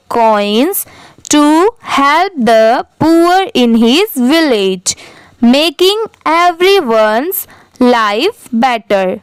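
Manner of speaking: slow, deliberate read-aloud for a class; teacher reading very slowly, one word at a time; slow dictation reading. Shown as a demonstration. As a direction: read each word very slowly for pupils to repeat. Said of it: "आप भी मेरे बाद repeat करिए".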